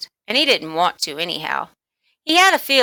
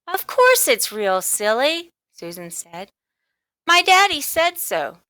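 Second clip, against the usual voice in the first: put-on indignant girl; 7 semitones higher than usual. A narrator's reading.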